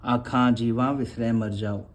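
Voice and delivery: recited line. Shown as a demonstration. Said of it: "जैसे हम रिराज साहब जी में पढ़ते हैं ना".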